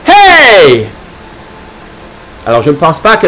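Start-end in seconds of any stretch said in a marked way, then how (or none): 0.1-0.9 higher, louder yelp "Hey!"; grumpy dog's shout. Acted. Grumpy little dog yelling at Santa, loud. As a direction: bark it out at Santa. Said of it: "lui crie".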